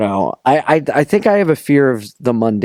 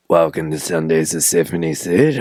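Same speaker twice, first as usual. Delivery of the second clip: low smooth radio voice; 10 semitones lower, 4 dB quieter than usual. Retold or imitated. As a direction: croon it like a late-night DJ. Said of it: "he goes".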